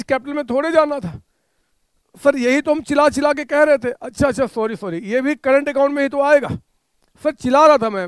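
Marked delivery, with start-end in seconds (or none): 2.1-3.9 louder mock student complaint; hammed-up student outcry; students yelling back. Teacher voices students' complaint. 7.2-8.1 loud hammed-up student protest; playful student outcry, louder; student's mock yell. Teacher voices a student complaining.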